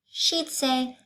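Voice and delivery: high, lilting schoolteacher; teacher voice. Acted. Teacher explaining shapes to her class, high teacher voice. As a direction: voice Miss Zarves teaching the class.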